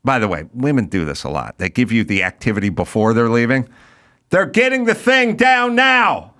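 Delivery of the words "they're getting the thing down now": slow, higher mock wife voice; a slow, higher quote of the wife; drawn-out mock wife; quoting wife. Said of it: "she says".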